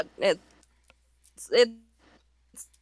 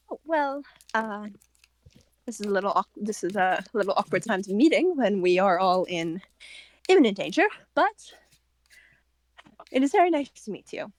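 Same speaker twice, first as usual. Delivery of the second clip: put-on lightly raised character voice, hardly an accent; a hint of a Russian-born character; Catalina character voice. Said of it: "pretend she has a Russian accent".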